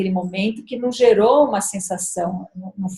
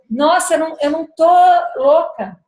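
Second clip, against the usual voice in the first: relieved sigh; 6 semitones higher, 5 dB louder than usual. Retold or imitated. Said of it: "ela respirou aliviada".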